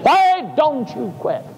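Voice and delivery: high, slow taunting devil; slow sly tempter voice; devil's voice. Retold or imitated. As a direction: coax him to give up. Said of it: "the devil said".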